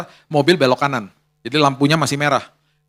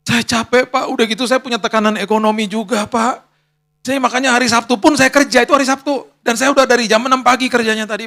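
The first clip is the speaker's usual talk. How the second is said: tearful apology; 5 semitones higher than usual. Retold or imitated. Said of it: "Tiba-tiba dia nangis".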